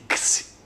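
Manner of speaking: ks said as a voiceless hiss; sounding out a sound. Shown as a demonstration. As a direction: breathe out ks with no voice. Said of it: "aquele som de K S".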